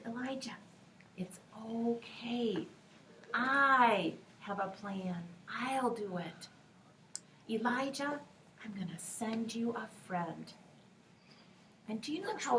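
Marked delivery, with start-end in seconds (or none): 0.1-10.5 calm him gently; reassuring. Acted. God reassures Elijah.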